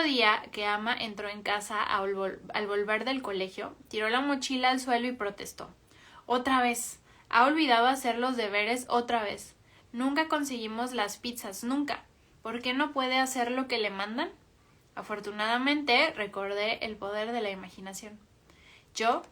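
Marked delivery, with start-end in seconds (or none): 6.3-14.3 put-on frustrated child. Daughter complains about Tommy.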